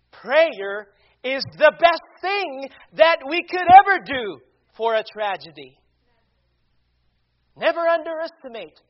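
punchy preacher's delivery with stressed key words; emphatic preaching. Real, not acted. Preacher answers critics of Christians who pray, emphatic preaching. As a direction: preach it with bursts of volume, pausing between phrases.

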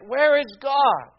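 a hammed-up public lament; mock outcry. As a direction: cry out like the anguished media. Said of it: "the media cried out".

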